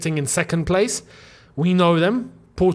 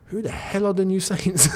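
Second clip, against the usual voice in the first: incredulous; 4 dB quieter than usual. Real, not acted. Baffled rant about obscure opponents.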